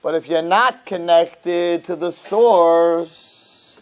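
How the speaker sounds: slow preaching. Acted. The rabbi draws the moral for his congregation, slow and earnest. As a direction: draw out the moral slowly.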